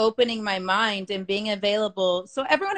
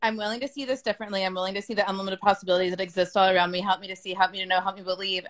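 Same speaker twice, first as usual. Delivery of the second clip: rushed recitation; 2 semitones lower, 4 dB quieter, faster than usual. Retold or imitated. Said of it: "And I did my".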